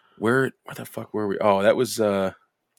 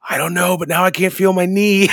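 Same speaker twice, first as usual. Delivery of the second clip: high, loud wail breaking into laughter; mock panicked giggly cry, pitched way up; giggling stoned friend; 11 semitones higher, 9 dB louder than usual. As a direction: imitate a stoner losing it. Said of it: "they're just fucking giggling back and forth".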